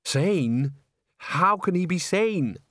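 high, incredulous protest; agitated Bucket. A narrator's reading. Bucket protesting to Salzella about the killer, high incredulous voice. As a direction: draw out the disbelief, pitch climbing.

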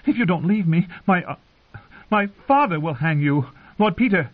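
high, faltering warning; frightened threat. A narrator's reading. Frightened girl warning the singer off, high and halting. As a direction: threaten him while scared, pitched high.

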